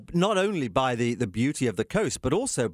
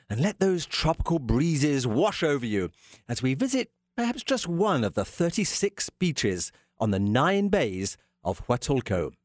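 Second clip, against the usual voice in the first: travel narration. Acted. Scene-setting travel narration.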